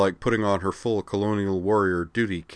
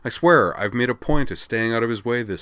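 protesting; 4 semitones higher, 4 dB louder than usual. Acted. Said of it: "Dyson protested".

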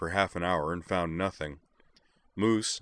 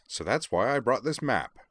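lightly voiced, higher character voice; pleased Devlin; 5 semitones higher than usual. A narrator's reading. Devlin shows Moose the map he brought, higher and lilting. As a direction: explain it with a raised, lilting tune.

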